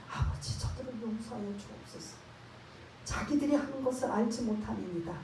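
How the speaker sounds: soft, earnest prayer to the Father; tearful plea. Retold or imitated. Jesus praying on the cross for his tormentors, softly pleading. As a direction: pray it gently, pleading for them. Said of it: "간절한, 절실한, 눈물 어린".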